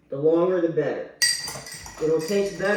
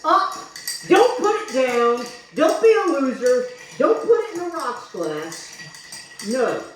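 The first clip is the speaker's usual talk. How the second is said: mock scolding; 6 semitones higher than usual. Real, not acted. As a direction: scold them like losers. Scolding viewers about glassware.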